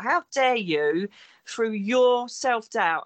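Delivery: slowed right down, "How" rising, each word weighed; slow deliberate reproach. Retold or imitated. To her friend Lindsay, repeating the rebuke slowly. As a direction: drag the words out to make the point sink in. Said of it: "and I actually did say to her".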